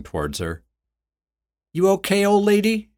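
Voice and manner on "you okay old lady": high, sing-song fake concern; mock concern. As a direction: pretend to care, cruelly. Woman mocks the captive.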